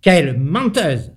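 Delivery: a touch of spiteful anger; cheated spider grumbling at the runaway ant. A narrator's reading. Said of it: "ronchonna l'araignée de dépit et de colère".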